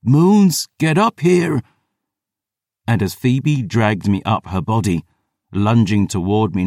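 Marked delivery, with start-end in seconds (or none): 0.0-1.6 higher and louder, a hungry hissed order; hissed demand. A narrator's reading. Lover pulls him up, hissing a hungry command. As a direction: she snarls her lover up to her in hunger. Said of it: "she hissed with all hell's hunger".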